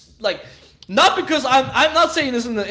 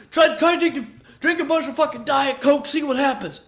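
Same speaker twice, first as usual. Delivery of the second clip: mock irritated challenge; 5 semitones higher than usual. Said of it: "He's fucking pissed over there".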